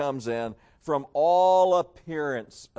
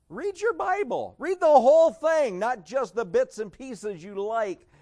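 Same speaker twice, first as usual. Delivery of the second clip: high, forceful preacher's shout; loud, high scolding command; stern exhortation; 7 semitones higher, 6 dB louder than usual. Acted. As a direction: burst out, pitched way up and building louder. Same admonition repeated as a shout.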